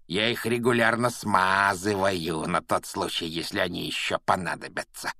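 put-on gloating, menacing old caretaker; sinister caretaker voice. Filch threatens the pupils.

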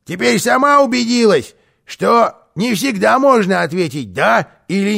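high, loud, emphatic; smug point-scoring. Acted. Karlsson proving his point to housekeeper, smug. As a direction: drive the point home loudly.

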